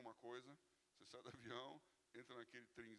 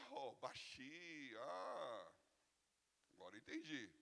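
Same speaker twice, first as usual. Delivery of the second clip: sudden recognition; 3 semitones higher, 5 dB louder, slower than usual. Retold or imitated. Woman finally understands.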